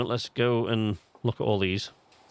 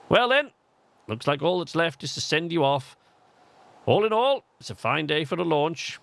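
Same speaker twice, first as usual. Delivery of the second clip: higher, lightly acted English accent; raised-pitch English-accented game character; 5 semitones higher than usual. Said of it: "why he has an English accent".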